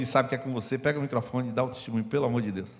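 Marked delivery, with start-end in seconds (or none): none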